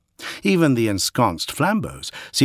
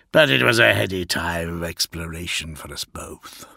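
low wistful primarch; 3 semitones lower than usual. Acted. Perturabo reminisces, low and soft.

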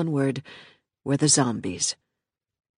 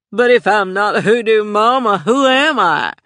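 louder, higher, desperate cry; plaintive cry; 6 semitones higher, 8 dB louder than usual. A narrator's reading. Joey asks Michelle who she is without her power, plaintive cry. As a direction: cry out for who you are. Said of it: "Joey asked with a plaintive cry".

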